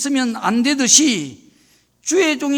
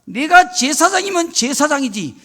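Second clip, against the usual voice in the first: indignant outburst, higher and louder, building to a shout; angry king; 6 semitones higher, 5 dB louder than usual. Acted. Offended king raging at the priest who told him to leave, angry. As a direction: act out an enraged king, rising to a loud threat. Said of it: "화를 내버리고 말았습니다".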